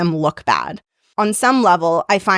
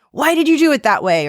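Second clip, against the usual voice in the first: higher-pitched, lightly acted pointed question; challenging stakeholder; 7 semitones higher, faster than usual. Stakeholder questioning the presenter about method, in a higher challenging voice. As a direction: imitate a stakeholder questioning the work. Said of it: "like a stakeholder says".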